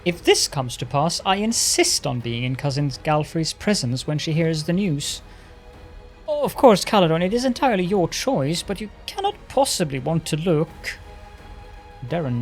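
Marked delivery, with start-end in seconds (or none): 0.0-11.0 sarcastic teasing. Acted. Darren jokes to Caledon.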